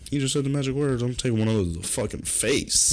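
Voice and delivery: retold excitedly, relishing the challenge; eager reply. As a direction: pipe up, raring to go. Acting out his eager reply to brother.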